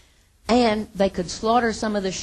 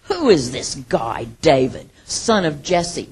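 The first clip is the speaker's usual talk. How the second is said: lower, slow sneering scoff; 4 semitones lower, 4 dB louder, slower than usual. Retold or imitated. Preacher voicing Nabal mocking David's messengers, slow scoff. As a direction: look down your nose and drag it out. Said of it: "And he scoffed at them".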